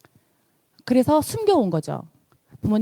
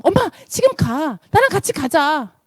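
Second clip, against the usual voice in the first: raised, higher voice as the daughter; lightly acted daughter coaxing mom to go; daughter urging mom; 6 semitones higher, 4 dB louder than usual. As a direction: press mom eagerly, imitating her daughter.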